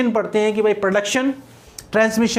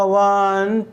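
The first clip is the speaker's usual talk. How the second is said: drawn-out वन held on a level tone; rising tone count. Shown as a demonstration. Teacher showing students counting intonation, वन drawn out. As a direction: count it out slowly, stretching वन. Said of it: "ascending order में बोलते जाते हैं तो pitch".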